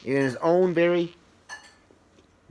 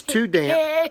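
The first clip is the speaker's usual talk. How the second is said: squeaky mouse; 10 semitones higher than usual. Acted. Mouse voice in read-aloud story.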